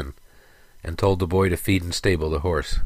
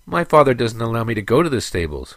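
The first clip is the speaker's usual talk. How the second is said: put-on little boy's mild whimper, pitched higher; 5 semitones higher, 4 dB louder than usual. A narrator's reading. Boy excuses himself to angry Sarek, whimpering in a higher voice. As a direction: plead like a small child, a touch whimpery. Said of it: "whimpered the boy".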